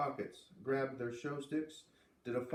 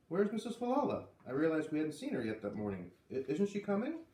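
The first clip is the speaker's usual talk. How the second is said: higher, anxious questioning; worried surprise; 4 semitones higher than usual. Acted. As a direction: fret about the missing neighbour. Worried question about missing neighbour.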